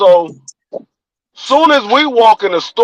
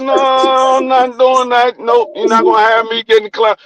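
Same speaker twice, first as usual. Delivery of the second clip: firm refusal; 4 semitones higher than usual. Retold or imitated. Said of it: "I said".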